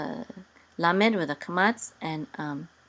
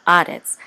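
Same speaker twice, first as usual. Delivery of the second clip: "haaretz" with a louder ah in the middle; stress on ah; 7 dB louder than usual. Shown as a demonstration. Teacher showing "haaretz" accent on ah, stressed middle syllable. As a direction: hit the second a of "haaretz". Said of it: "the accent is on ah".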